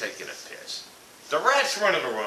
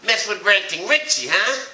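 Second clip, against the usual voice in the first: tough-guy boast; 5 semitones higher, 6 dB louder than usual. Real, not acted. Sign-off boast.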